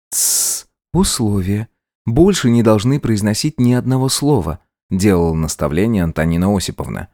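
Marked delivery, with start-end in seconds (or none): 0.1-0.7 a whispered tsss; barely audible shushing; soft shush. A narrator's reading. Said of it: "тихо-тихо прошептать". 0.9-4.6 higher, firm instructions to the maid; coaching a nervous accomplice; cool schemer giving orders; commanding bride. Acted. Antonina continues orders.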